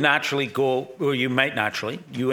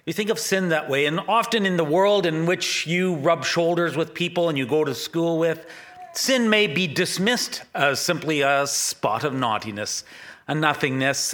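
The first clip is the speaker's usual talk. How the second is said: put-on light British accent; 5 semitones higher than usual. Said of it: "I just heard in his British accent".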